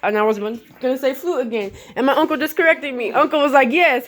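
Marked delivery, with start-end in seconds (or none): 3.7-4.1 uncle's second voice. Retold or imitated. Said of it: "His second voice said".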